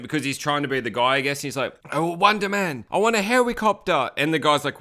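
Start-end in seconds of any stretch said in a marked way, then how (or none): 1.9-4.1 high-pitched fake Asian accent; hammed-up bad Asian accent; terrible Asian accent. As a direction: badly imitate an Asian accent. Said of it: "really terrible Asian accent".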